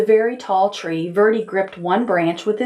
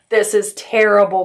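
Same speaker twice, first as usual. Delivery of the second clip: dismayed cry; 3 dB louder than usual. Acted. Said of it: "cried Verdi".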